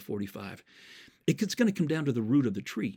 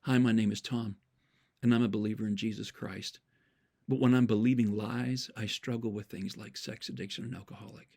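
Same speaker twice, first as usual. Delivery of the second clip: calmer, lower, deliberate reworded intro; reframed demo; 3 semitones lower than usual. Shown as a demonstration. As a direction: show the better way to say it, gently. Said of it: "Listen to the difference to this".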